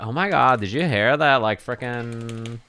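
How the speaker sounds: lightly mocking gossip voice, pitch lifted at points; mock phone-starers. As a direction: imitate oblivious gossipers in mild mockery. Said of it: "And they're like".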